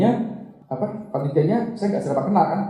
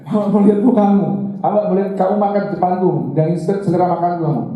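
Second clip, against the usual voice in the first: taunting challenge; 2 semitones higher, 4 dB louder than usual. Retold or imitated. Woman taunting at dinner.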